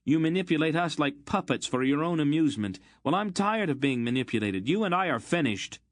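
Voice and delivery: furious tirade. A narrator's reading. Geryon raging at Aunt Paul, furious. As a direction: let the anger run away with him.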